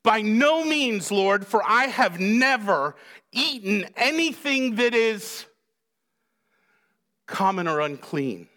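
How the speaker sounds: emphatic protest. Acted. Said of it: "he justifies his reaction".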